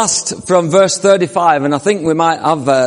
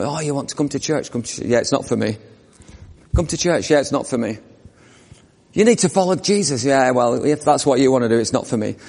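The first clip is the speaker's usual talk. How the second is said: dismissive brush-off; 4 semitones lower, 5 dB quieter than usual. Retold or imitated. Voicing dismissive people and invitation.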